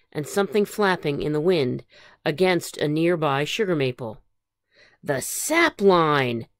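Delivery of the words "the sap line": cried out. Acted. Phyllis spotting the sap line, relieved. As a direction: build from wonder to a cry. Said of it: "she cried".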